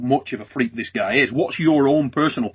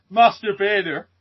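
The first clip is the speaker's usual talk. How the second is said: laughing echo; 6 semitones higher, slower than usual. Retold or imitated. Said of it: "in an Irish accent when you said that fast".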